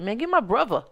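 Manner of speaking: put-on Baltimore accent, V sound in "brother". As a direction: imitate a Baltimore man saying "brother" with a V. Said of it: "So everything is V".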